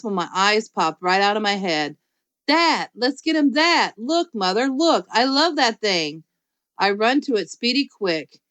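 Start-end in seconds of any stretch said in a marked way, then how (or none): 2.5-6.2 excited. Acted. Junie B thrilled at tool belt.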